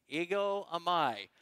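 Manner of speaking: "Ego eimi" said slowly together with the congregation; group repeat. Shown as a demonstration. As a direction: lead the room through "Ego eimi" slowly. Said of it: "Say that with me".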